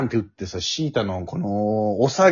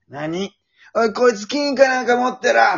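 rough pirate; 10 semitones higher than usual. Retold or imitated. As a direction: bark it like a greedy thug. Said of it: "みたいな".

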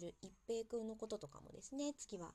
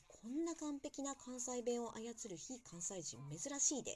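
imitating Kansai-dialect friend; 3 semitones higher, slower than usual. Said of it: "関西弁にめっちゃうるさい子".

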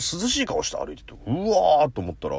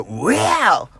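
mock barked where; 3 semitones higher, 4 dB louder, slower than usual. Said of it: "吠えてみた".

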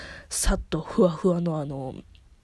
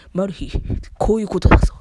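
teasing; 7 dB louder than usual. Retold or imitated. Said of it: "とか言って、なんかすっごいいじるし".

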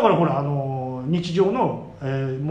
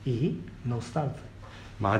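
ノスタルジー said slowly, drawn out; slow drawn-out nostalgia; 5 semitones lower, 8 dB quieter, much slower than usual. Shown as a demonstration. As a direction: stretch ノスタルジー slow and soft. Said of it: "言ったじゃん、ノスタルジー".

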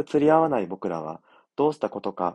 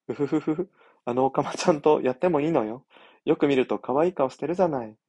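sweet eerily obsessive voice; 4 semitones higher than usual. Acted. Teacher teases, giggling.

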